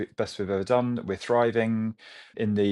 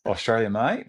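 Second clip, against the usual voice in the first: a quick Aussie accent, rising on mate; light put-on Australian twang for the host; 2 semitones higher than usual. Shown as a demonstration. Host asks for his best Australian accent, so a light Aussie accent. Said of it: "Can you give us your best Australian accent?".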